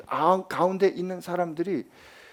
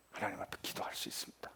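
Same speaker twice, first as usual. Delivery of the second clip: whisper; 10 semitones lower, 17 dB quieter, faster than usual. Acted. Preacher drops to a hush.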